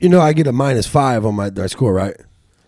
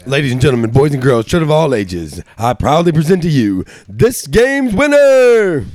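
ringmaster; 3 dB louder, slower than usual. Pretend. Announcing the game's winner.

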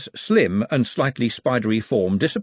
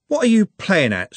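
angry; 9 semitones higher, 5 dB louder than usual. A narrator's reading. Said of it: "said Trev angrily".

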